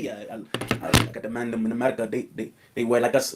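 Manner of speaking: deep, put-on London accent, mocking; imitating a London rapper, British accent sent up. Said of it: "his accent so damn cool".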